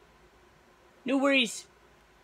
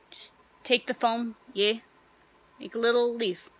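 whisper; 4 dB quieter than usual. Acted. Quietly coaching the new barista.

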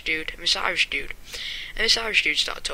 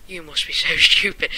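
laughing disbelief; 6 dB louder than usual. Retold or imitated. Laughing at the Irish player.

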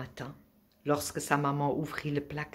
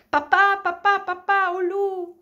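high, frantic yell for dad; hurlement encore plus fort; 12 dB louder than usual. A narrator's reading. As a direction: scream the alarm at full voice. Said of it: "hurla encore plus fort". (hurlement aigu, à tue-tête)

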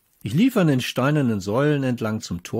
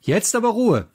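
teacher snaps the class to order, pitched up; teacher calling out; 10 semitones higher, 4 dB louder than usual. A narrator's reading. Teacher calling the noisy class to order, loud and high. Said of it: "rief Frau Polputowski".

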